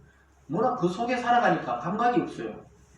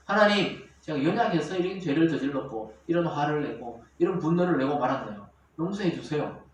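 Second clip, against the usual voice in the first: honest confession; 3 semitones lower than usual. Acted. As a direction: confess humbly to God, voice settling lower. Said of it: "솔직하게 이야기하면 됩니다".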